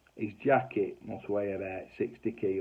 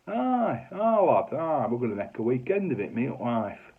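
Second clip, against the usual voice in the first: put-on old fella; 4 semitones higher, 5 dB louder than usual. Old fella Stan answers.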